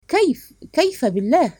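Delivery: embarrassed alarm. A narrator's reading. Husband to wife on learning the maid overheard, dismayed. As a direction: cry out in bashful dismay. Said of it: "فهتفت بحياء وانزعاج".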